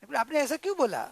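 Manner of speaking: quick, mildly indignant demand; insistent annoyed question. Acted. Father-in-law asks why she said it, annoyed. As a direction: keep pressing, not yet pacified.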